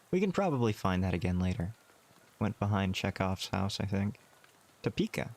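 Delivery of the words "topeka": Topeka with a high, rising question tune. Acted. Repeating the town name back, rising and puzzled.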